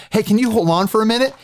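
high, quick chirpy brush-off; breezy fake-friendly ask to hold; sing-song phony courtesy to a robocaller; fake polite.

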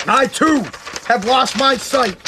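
measured pauses, as a general reading his letter; George Washington. Retold or imitated. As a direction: read it out slowly and deliberately, mock-stately. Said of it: "read his little letter, be like".

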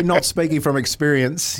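sarcastic quoting. Retold or imitated. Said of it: "you know when they say".

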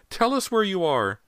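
high, loud desperate demand; terrified shriek. A narrator's reading. Mother demands son's whereabouts, terrified high shriek. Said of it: "shrieked in a terrified voice".

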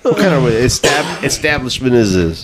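high, indignant complaint to the manager; imagined rant at the front desk, high and huffy; mock bitching out. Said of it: "I would've bitched out".

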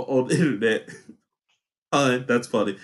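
usual speaking voice

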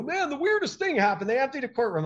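lightly voiced baffled client; imitating amazed clients. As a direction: tell it like it baffled you. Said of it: "They go".

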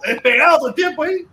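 excited teasing yell; excited shout. Real, not acted. Excited teasing about friends.

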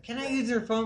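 a hint of a needy stranger asking; mimicking the lady. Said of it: "She's like".

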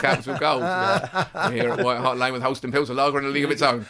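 lightly voiced sponsor read; commentator impression. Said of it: "That's what he used to have to say".

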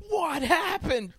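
high, slow, dazed what happened; mock-dazed as if just out of a coma; confused waking. Friend retelling a coma patient waking, dazed and high.

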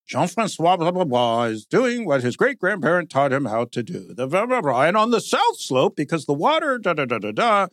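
mock reverent wine documentary. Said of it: "there's a reverence or a, like, you know, a tone".

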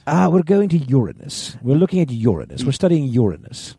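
hammed-up British accent; mock British. Co-host imitating Brits naming the planet, mock British accent. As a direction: play a British scientist saying YUR-uh-nus. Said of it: "I think it's the Brits".

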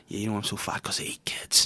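soft, half-whispered threat; quiet mock-sinister confession; mock menacing. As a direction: murmur it creepily to a child. Acted creepy retort to a child.

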